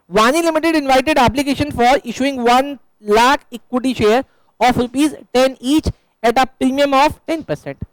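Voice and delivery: slow, deliberate dictation of the problem; measured reading like a teacher dictating; reading the question aloud. Acted. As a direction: spell it out slowly so the class can write it down. Reads the question text aloud.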